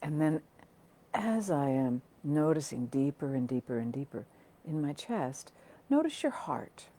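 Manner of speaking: spacious meditation guiding, trailing into softness; guided meditation. Acted. Teacher guiding listeners to notice their heart, guided meditation. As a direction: lead them inward, leaving room between phrases.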